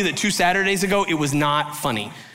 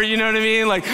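usual speaking voice

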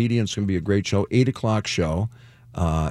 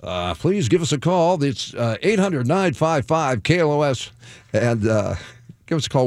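announcer voice; 3 semitones higher than usual. Acted. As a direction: boom it out like a promo spot. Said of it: "can I put on my announcer voice for that".

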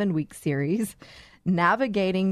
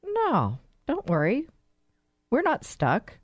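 higher-pitched, easy reassurance; acted reassurance; 6 semitones higher than usual. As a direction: play the coach telling them not to worry. Coach reassures person stuck in hole.

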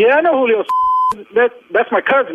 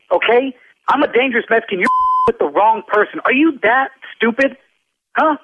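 heated, indignant street-tough comeback; angry tough talk. Real, not acted. Loan officer snapping at a rude prank caller, angry. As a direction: put the caller in his place, fed up. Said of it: "I don't even like to talk like this".

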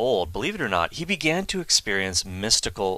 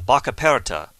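fake Italian accent; 2 semitones higher, 4 dB louder than usual. Shown as a demonstration. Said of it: "my fake Italian accent is terrible".

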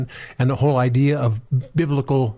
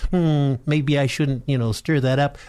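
wimpish inner voice; slower than usual. Retold or imitated. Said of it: "my wimpish character comes up and go".

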